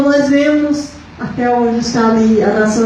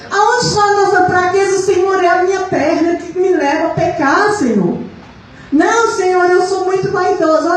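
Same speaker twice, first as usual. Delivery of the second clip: high, pressing preaching tone; 5 semitones higher than usual. Real, not acted. Confessing vanity to the Lord before the church, preaching. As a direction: voice the confessions as insistent pulpit prayer.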